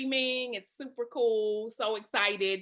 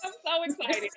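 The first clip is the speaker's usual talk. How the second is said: excited; 5 semitones higher than usual. Real, not acted. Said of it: "I'll bring it down".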